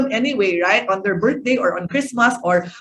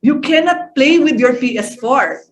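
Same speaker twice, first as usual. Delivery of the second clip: negative threat; 3 semitones higher, 4 dB louder than usual. Shown as a demonstration. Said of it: "how would you say it differently?".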